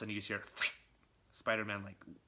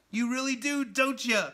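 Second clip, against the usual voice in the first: much higher, louder sneering taunt; mocking villain; 11 semitones higher, 7 dB louder than usual. Red Goblin mocking Peter's apology, high loud sneer. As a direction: needle him like a gleeful madman.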